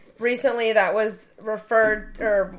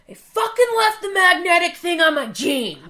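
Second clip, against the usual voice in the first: higher, louder mock rant through a laugh; imitating an angry husband; 8 semitones higher, 7 dB louder than usual. Wife imitating her husband cursing about his jeans, mock angry. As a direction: play the husband cursing at himself, half laughing. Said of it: "he's just fucking pissed".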